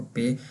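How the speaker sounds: पे said as in "pay"; German letter P, said पे; like English "pay". Shown as a demonstration. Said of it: "उस तरह की pronunciation निकालेंगे". (पे, अंग्रेज़ी "pay" जैसा उच्चारण)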